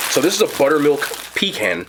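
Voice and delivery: "pecan" said pih-CAN with a short a; "pecan" stressed on the second syllable, pih-CAN; pronunciation. Shown as a demonstration. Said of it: "okay, pecan".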